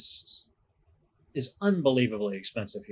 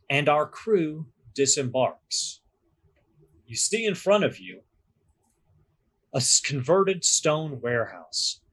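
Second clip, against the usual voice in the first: game master narration. Acted. Game master to players, setting the scene in a measured narrator voice. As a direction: paint the city for the players, unhurried.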